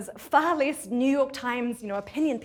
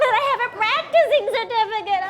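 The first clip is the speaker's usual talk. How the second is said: pleading; 10 semitones higher, 7 dB louder, faster than usual. Acted. Protesting to the imposter police.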